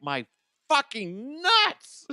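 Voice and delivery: slow, high, strained pained groan; retold pain. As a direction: drag the words out in pain. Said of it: "I'm like".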